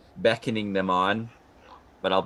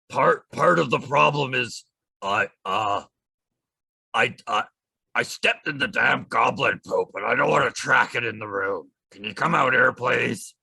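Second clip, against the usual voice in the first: hobgoblin voice. Acted. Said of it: "Another performance check?".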